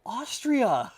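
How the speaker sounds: high, loud dumb-guy echo; mock dopey quote. Quoting Dumb and Dumber, mock dopey voice. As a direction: parrot the word like a clueless guy. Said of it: "He's all".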